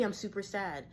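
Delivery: understated mock gloom; mock super sad. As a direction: act sad without much weight. Acts out the opposite low wave.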